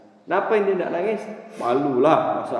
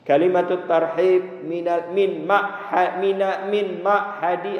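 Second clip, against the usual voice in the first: halting; 3 semitones higher, slower than usual. Shown as a demonstration. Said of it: "susah kan".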